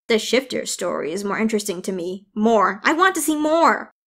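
excited. Acted. Eager fairy begging for more.

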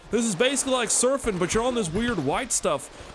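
high, loud surfer-bro voice, dragging the dudes; Jeremy bro voice. Acted. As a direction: play a stoked high-pitched bro vlogger introducing himself. Continues Jeremy persona.

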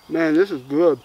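talking with mouth full. Real, not acted. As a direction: speak through a mouthful of food. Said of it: "Apologize for talking with my mouth full".

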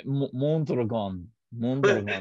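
Mondragon again in a Spanish accent, slow. Shown as a demonstration. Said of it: "Say it one more time".

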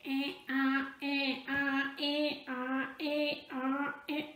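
soft hee-haw braying; gentle imitated hee-haw; mock donkey bray.

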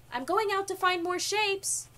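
put-on child hollering to a parent; yelling. A narrator's reading. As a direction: call it through the house. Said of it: "he yelled".

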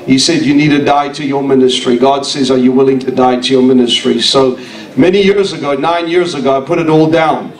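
ordinary delivery

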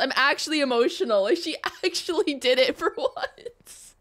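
mildly overcome, gushing; getting emotional. Real, not acted. Gamer moved that a character delivered, emotional gushing. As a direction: gush in happy disbelief. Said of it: "I'm getting emotional about this".

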